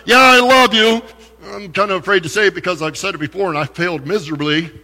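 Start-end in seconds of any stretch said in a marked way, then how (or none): 0.1-1.0 a casual throwaway yeah, higher and louder; offhand casual reply. Retold or imitated. Preacher mimics a shallow answer to Jesus, mock casual. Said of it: "Not just".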